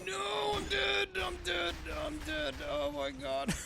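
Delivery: dramatic high-pitched wail; shrieking disbelief. Real, not acted. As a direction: screech as if mortally hit. In-game character dies dramatically.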